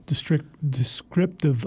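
slow false start "district", then "descriptive"; stumbling over a word. Real, not acted. Co-host praising the writing, stumbling on "descriptive". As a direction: trip on "descriptive", first saying "district". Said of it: "I can't say the word".

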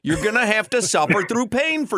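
hammed-up sales line, stretching the key words; mock slogan. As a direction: pitch pain like a marketing promise. Pitching a mock team slogan.

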